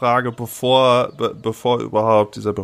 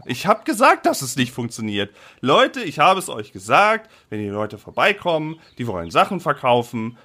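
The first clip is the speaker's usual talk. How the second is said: put-on higher, exasperated old mayor; flustered mayor; 3 semitones higher than usual. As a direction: complain like a fed-up mayor. Mayor keeps talking.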